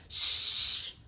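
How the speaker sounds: soft unvoiced shush; hushing whisper. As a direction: hush so the baby won't wake. Child hushing, sleeping squash.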